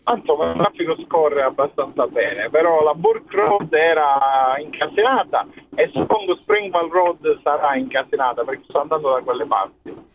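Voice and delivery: Italian with a Sicilian accent; natural Sicilian lilt in Italian. Real, not acted. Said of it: "chiaramente accento siciliano".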